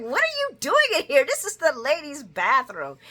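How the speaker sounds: high, fast, startled loud question; shocked lady. Retold or imitated. Woman finding Martin in the ladies' bathroom, high and startled. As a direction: catch him where he shouldn't be.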